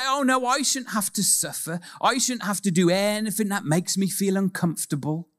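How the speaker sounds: mock whining. Mocking believers' complaint.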